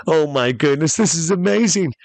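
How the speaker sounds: high, excited outburst; rising, hammed-up amazement; thrilled. Castaway reacting to the genie's offer, high and thrilled.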